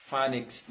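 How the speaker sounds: "Phonics" with a short A sound, FAN-ix; "Phonics" rhyming with "sonics" said FAN; correct pronunciation. Shown as a demonstration. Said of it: "not phonics".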